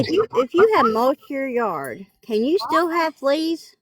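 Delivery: speaking without dentures in; words slurred with no teeth; toothless. Real, not acted. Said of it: "I don't have my teeth in".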